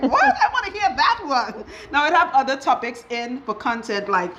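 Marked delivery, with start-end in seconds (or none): 0.0-1.6 higher, laughing through the quote. Retold or imitated. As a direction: imitate her eager laughing request. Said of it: "She's like".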